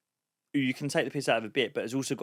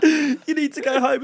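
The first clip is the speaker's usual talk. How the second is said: put-on stern girlfriend; 11 semitones higher, 8 dB louder than usual. Girlfriend voiced in story.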